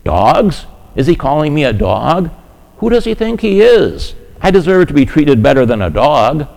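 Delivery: indignant, rising on Who does he think he is; half-hearted hurt indignation; imagined offense at being called a dog; mock offended outburst. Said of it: "take great offense".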